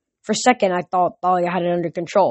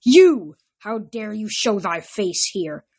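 angry; 2 semitones higher, slower than usual. Acted. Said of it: "didn't seem anxious to lower her bow".

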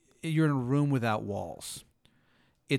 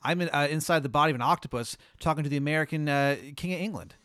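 raised, fast complaining voice; indignant octopus; 3 semitones higher, 5 dB louder, faster than usual. Acted. Octopus pleading with the king, indignant and fast.

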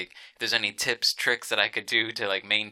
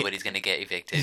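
Trump impression; faster than usual. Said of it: "Exactly like that".

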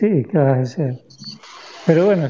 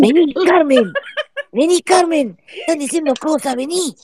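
laughing call; 11 semitones higher than usual. Acted. Calling someone over laughing.

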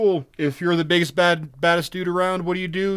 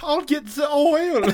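high, slow mock Austrian accent; Hans and Franz; 10 semitones higher, slower than usual. Joining co-host's bodybuilder bit, put-on Austrian accent. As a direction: play along as an Austrian bodybuilder, pitched up. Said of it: "We are, we are Hans and Franz".

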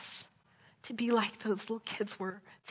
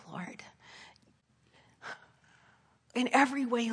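earnest prayer, swelling then sinking to whispers; closing prayer; 3 dB louder than usual. Acted. Pastor praying over the congregation, earnest and swelling. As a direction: pray over the church, rising and falling.

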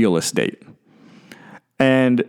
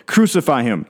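mock crowd yell, raised pitch; crowd cries; 4 semitones higher than usual. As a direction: imitate a mob calling for blood, half-voiced. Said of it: "cries of the crowds calling".

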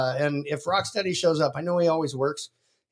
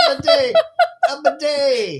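laughing squeal; 4 dB louder than usual. Real, not acted. Repeating joke laughing.

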